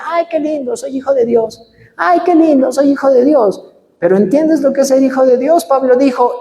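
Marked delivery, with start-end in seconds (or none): 0.0-3.6 higher, sappy mocking sigh of delight; a light hammed-up starry-eyed churchgoer; mock sentimental. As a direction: parody a naive believer gushing. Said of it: "muy básico o muy romántico de la Biblia".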